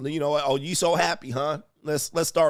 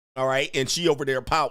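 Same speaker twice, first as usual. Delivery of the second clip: plain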